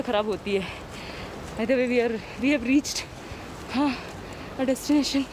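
muffled speech behind cloth mask; speaking while walking masked; talking through face mask. Real, not acted. Seen 5: Selfie vlogger wears a cloth mask over mouth and nose throughout.

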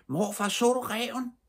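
very high, stretched-out calling; high, drawn-out excited cry; screamed question. A narrator's reading. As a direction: shriek the question slowly to grandfather. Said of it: "skreg Stine".

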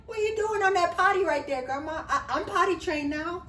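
put-on high, chirpy little-boy voice; little boy Zach. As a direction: play an eager seven-year-old. Grandson Zach voiced by adult.

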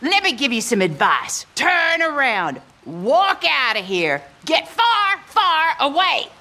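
firm, loud warning to leave; menacing loud order; loud threat. Acted. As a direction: drive him out of the house. Woman threatening an intruder.

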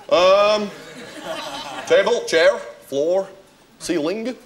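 put-on trying out a northern English accent word by word; borrowed northern English accent. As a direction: test each word in a new northern accent, pausing between. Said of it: "Right, well, let's try it out".

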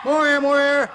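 loud, high urging call; coaching shout. Real, not acted. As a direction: push the class to breathe harder. Coach urging breathing exercise.

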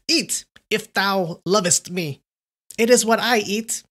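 put-on ghostly girl's cry. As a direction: beckon him like a hungry spirit. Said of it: "she cried to him".

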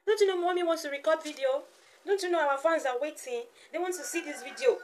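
put-on high-pitched baby-talk scolding; mock reproach in motherese; playful scolding. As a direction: plead with a baby in a high, loud voice.

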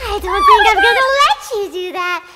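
building to a shouted threat; sneer, then roar the last line; evil ghost voice. Acted.

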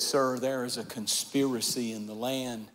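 soft, hushed confession to the king; a queen's soft, trembling plea; Esther's hushed plea. Acted. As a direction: lay it bare quietly, almost in secret. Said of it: "She said".

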